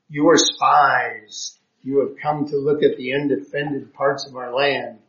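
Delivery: a mild, slowed, stern accusation; harsh accusation. Acted. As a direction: read it as a lightly harsh charge. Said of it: "spoke to them harshly".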